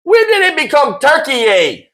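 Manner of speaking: high laughing shout of disbelief; cracking up at the word. Real, not acted. Mocking new pronunciation, laughing.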